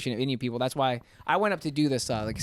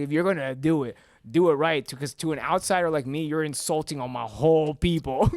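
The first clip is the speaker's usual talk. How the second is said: Indian accent; 3 semitones higher, 4 dB louder than usual. Shown as a demonstration. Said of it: "how you really do the Indian accent".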